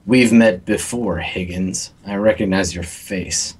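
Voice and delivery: slow, measured villain's reply; menacing villain. Acted. Game master as Mister Fang answering Higgins's call, menacing. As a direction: draw it out with cold recognition.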